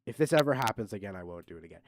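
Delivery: lightly voiced contrite apology; mock apology. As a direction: mumble a half-hearted sorry. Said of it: "That should have been the, the real honest apology".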